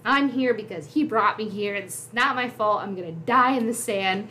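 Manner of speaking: mock whiny droid grumbling; complaining. Stranded droid blames his partner for everything, complaining. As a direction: grumble like a put-upon droid, punching the blame. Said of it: "starts complaining about how it's all R two's fault".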